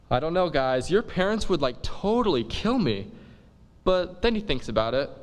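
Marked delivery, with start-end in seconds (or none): 0.1-3.1 higher, worried hedging; nervous friar. Acted. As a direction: fret like a nervous teacher. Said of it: "he's like".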